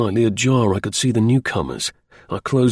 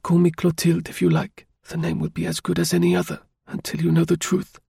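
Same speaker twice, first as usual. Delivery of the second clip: bitter; 7 semitones higher than usual. A narrator's reading. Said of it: "she said bitterly".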